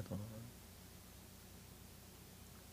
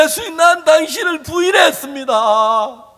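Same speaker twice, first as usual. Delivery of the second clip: loud, high cry of guilt; shouted self-reproach, high and strained; anguished confession; 6 semitones higher, 3 dB louder than usual. Acted. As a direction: cry it out as the broken disciple. Peter confessing to Jesus.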